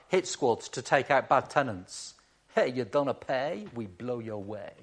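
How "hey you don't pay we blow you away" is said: put-on joking Italian accent, dropping away at the end. Preacher playing a landlord's hit squad, in an Italian accent. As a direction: play a hitman with a mock Italian accent. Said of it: "apologise for my Italian accent".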